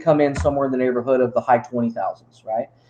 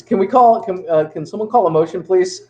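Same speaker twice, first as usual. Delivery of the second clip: mayor's request; 3 semitones higher than usual. Retold or imitated. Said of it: "He says".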